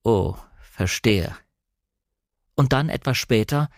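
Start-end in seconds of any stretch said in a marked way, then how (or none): 0.0-1.3 very slow, low realisation; slow, lengthened and lower; drawn out. A narrator's reading. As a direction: let each word stretch, with a pause between. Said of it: "sagte er endlich sehr gedehnt".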